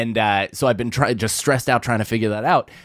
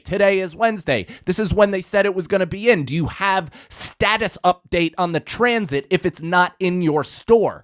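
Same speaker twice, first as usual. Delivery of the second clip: raised pitch, insistent mock urgency; urgent caller; 5 semitones higher than usual. Customer to clerk before Friday's event, urgent. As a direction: press each fact on the clerk, pitch up. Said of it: "show you that there's a bit of fucking urgency".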